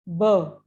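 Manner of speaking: ब alone as a short, low "buh"; isolating the sound. Shown as a demonstration. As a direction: sound out ब by itself. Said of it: "इसमें किसकी sound आ रही है".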